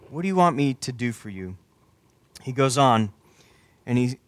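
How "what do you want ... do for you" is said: unhurried, slightly softened question; deliberate question. Acted. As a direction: repeat it with room for each word. Same question repeated more deliberately.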